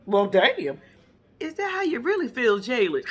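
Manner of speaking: loud reaction through a laugh; amused mock offence. Friend reacting to Jalen's blunt answer, amused mock offence. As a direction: act taken aback, half laughing.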